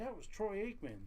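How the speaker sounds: imitating a thrilled nurse, lightly; mock starstruck whisper-gossip of a coworker; excited nurse. Nurse voiced in retold story.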